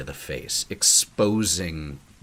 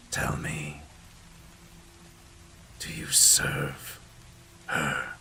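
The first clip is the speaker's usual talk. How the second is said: low, whispery voice with long pauses; mysterious stranger; 3 semitones lower, 8 dB quieter than usual. Acted. Stranger on the bridge warning of old things stirring, mysterious whisper. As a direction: give a cryptic warning, hushed and halting.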